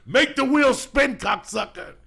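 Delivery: high, cackling, laughing through it; laughing repeat. Acted. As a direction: crack up while saying it. Laughing repeat of own line.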